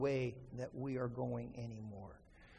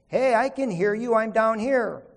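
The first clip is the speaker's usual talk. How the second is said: loud, higher call upward; 5 semitones higher, 9 dB louder than usual. Retold or imitated. Jack calls up from the ledge, shouting. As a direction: shout up to be heard.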